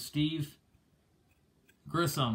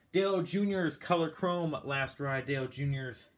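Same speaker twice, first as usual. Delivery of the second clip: a little winded, catching breath between words; 2 semitones higher than usual. Real, not acted. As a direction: talk while short of breath. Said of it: "I'm out of breath".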